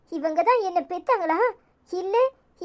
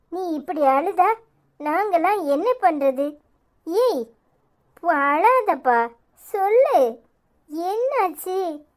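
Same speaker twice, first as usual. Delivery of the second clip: gentle consoling; 3 semitones lower, much slower than usual. Acted. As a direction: coax her gently to stop crying. Friend consoling crying Anitha.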